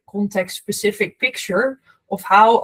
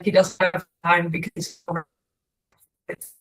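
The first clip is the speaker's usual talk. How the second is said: scrambled voice. Real, not acted. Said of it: "connection is cutting out a bit".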